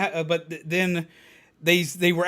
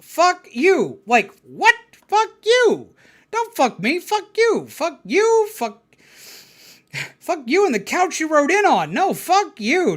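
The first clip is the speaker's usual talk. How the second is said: high yelled curses back and forth; hammed-up trading of insults; mock shouting match; 6 semitones higher, slower than usual. Caller and he trade curses, high mock yells. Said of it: "immediate response... is just".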